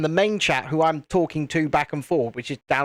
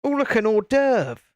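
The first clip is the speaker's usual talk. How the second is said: lightly voiced gator, pitched up; a hint of mock delight, higher voice; gator's thought; 5 semitones higher than usual. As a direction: play a gator spotting a titbit. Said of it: "it would think".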